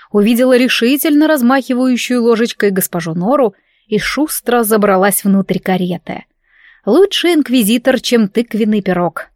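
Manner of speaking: ordinary delivery, nothing marked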